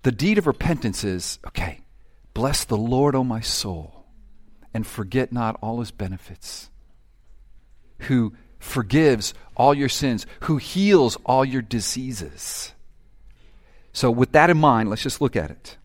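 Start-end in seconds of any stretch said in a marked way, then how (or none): 2.3-12.7 hushed prayerful psalm. Acted. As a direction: read it gently as a prayer. Quiet reverent scripture reading.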